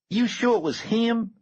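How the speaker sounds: a suspicious gang member snapping a question; snapped question. A narrator's reading. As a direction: snap it back in disbelief. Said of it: "snapped Leroy".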